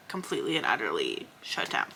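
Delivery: dropped to an unvoiced whisper. Real, not acted. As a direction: let it sink into a whisper. Confessing shutting down to viewers.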